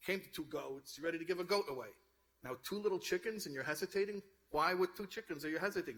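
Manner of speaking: mildly exasperated retold quote, building in pitch toward the end; lightly acted frustration, climbing as it goes; flustered. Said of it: "He's getting flustered".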